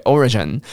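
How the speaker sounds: "origin" finishing on a clear nasal N; N ending. Shown as a demonstration. Teacher explains the final sound, N-ended "origin". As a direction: end "origin" with the tongue up for N. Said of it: "尾巴的鼻音它是N结尾".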